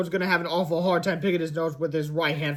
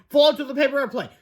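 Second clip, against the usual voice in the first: urgent cry; 8 semitones higher, 4 dB louder than usual. Acted. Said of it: "cried Fluffy".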